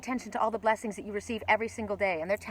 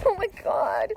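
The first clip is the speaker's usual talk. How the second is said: high-pitched awestruck exclamation; real thrilled outburst; 11 semitones higher, slower than usual. Real, not acted. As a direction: gush in high-pitched amazement. Thrilled at owl sighting.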